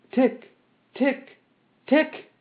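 high, short spoken ticks; mechanical ticking. A narrator's reading. Metal man ticks between phrases, high mechanical ticking. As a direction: tick like clockwork, high and evenly spaced.

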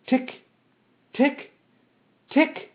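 high, short spoken ticks; mechanical ticking. A narrator's reading. Metal man ticks between phrases, high mechanical ticking. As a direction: tick like clockwork, high and evenly spaced.

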